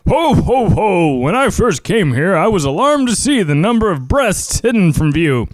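high, booming ho-ho-ho voice, swooping pitch; hammed-up jolly old Father Christmas; Santa Claus. Player performing his impression for the host, jolly Santa. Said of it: "do a great Santa Claus impression".

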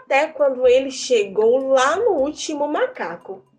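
put-on lively storyteller voice for kids; reading to children. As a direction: tell the tale to children with wonder. Tells a folk tale to children.

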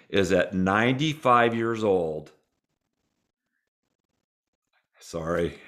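getting emotional mid-sentence; choked up. Real, not acted. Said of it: "I don't know why I get emotional".

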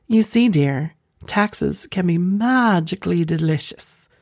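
lightly voiced Irish accent; playful, mild mock-Irish accent. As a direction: put a hint of Irish lilt on it. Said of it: "said in her best Irish accent".

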